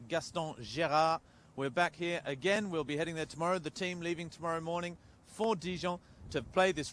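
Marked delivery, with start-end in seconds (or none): 0.1-1.2 French stadium name in a mild English accent, drawn out; English-accented French, unhurried, rising at the end; British French accent. Real, not acted. Co-host teased by his French colleague, English-accented French. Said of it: "l'accent british".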